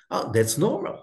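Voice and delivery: ordinary talk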